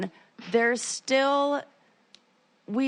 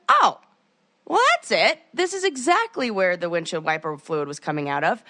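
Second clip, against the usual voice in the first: mock realization; 3 semitones lower than usual. Mock realization, high start.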